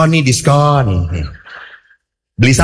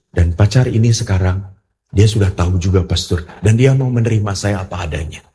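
solemn confession; 5 semitones lower than usual. Retold or imitated. Woman retold continuing her confession.

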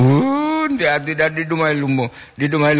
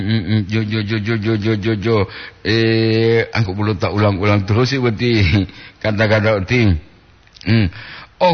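usual speaking voice

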